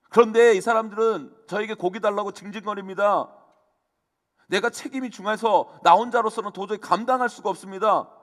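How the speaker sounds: arguing with God. Retold or imitated. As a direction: protest to God like a worn-out leader at his limit. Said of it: "마치 하나님께 따지듯이 기도해요".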